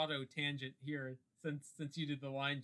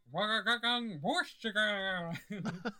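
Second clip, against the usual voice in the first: gibberish alien chatter; 5 semitones higher, 4 dB louder than usual. Retold or imitated. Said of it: "It sounds something like".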